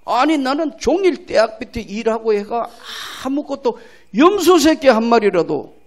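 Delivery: a resentful son protesting to his father; angry elder son. Acted. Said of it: "막 화를 내는 거예요".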